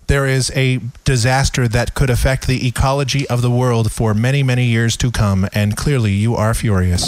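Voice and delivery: stiff, monotone mock concern; emotionless, evenly pitched delivery; deadpan parody. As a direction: recite alarm with no emotion. Continues the monotone parody dialogue.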